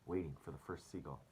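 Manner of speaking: put-on lively read-aloud for children; story reading. Teacher reading the book to students, story voice. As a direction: read the chapter to the class.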